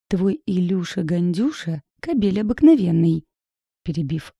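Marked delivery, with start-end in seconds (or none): 0.1-3.2 every word rapped out, ending louder; clipped emphatic. Acted. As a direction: spell it out word by word, hard. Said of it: "отчеканила я". (чеканя каждое слово, под конец громче)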